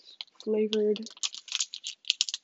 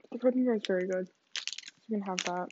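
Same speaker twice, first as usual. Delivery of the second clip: chewing while talking; 4 dB quieter, faster than usual. Real, not acted. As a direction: mouth full of protein bar. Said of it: "sorry if you can hear me eating".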